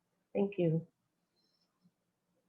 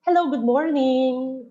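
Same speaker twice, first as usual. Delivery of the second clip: cheerful greeting with a rising tune, a touch higher and louder; smiling phone greeting; 4 semitones higher, 4 dB louder than usual. Shown as a demonstration. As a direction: greet the caller with a smile you can hear. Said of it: "Ipapractice ta po yan na nakasmile kita".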